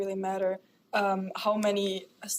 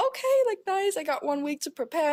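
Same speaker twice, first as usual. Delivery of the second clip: ironic; 6 semitones higher than usual. Retold or imitated. Retold ironic reaction to short notice.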